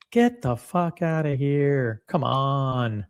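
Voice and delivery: slow, scoffing get-outta-here; drawn-out dismissal. Real, not acted. Scoffing at viewers excited about minor brands, slow and drawn out. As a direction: drag it out in mock disbelief.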